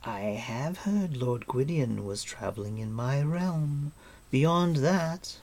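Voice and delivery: measured, lilting queenly voice; lightly voiced regal composure; composed queen. Queen answering her prisoner, composed.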